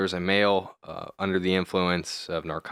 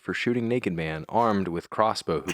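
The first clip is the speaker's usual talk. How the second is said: newscaster voice. Pretend. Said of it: "Can you read it in your newscaster voice, please?".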